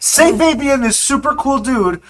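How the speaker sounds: loud, high threatening demand. Acted. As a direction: menace him into taking it back. Threatening NPC with acid.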